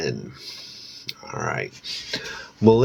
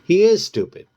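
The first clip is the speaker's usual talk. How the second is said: high, loud sneer; mocking jab, pitched up and loud; 12 semitones higher, 7 dB louder than usual. A narrator's reading. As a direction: sneer it down at him.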